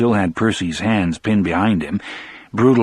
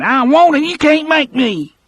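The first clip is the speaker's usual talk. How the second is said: put-on high, loud whiny child, stress on can't; a frightened child digging in, louder; childish refusal; 4 dB louder than usual. Percy refuses again.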